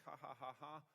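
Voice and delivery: spoken-out happy ha-ha laugh; mock laughter. Preacher reminding church of Sarah's laughter, acted laugh. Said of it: "God has brought me laughter".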